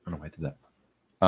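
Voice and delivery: apologetic aside. Real, not acted. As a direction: mutter it off-mic, embarrassed. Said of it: "I'm gonna do something really nasty".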